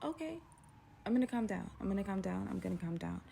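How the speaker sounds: soft, subdued self-soothing; calming herself. Retold or imitated. Frightened woman calming herself after being yelled at, subdued.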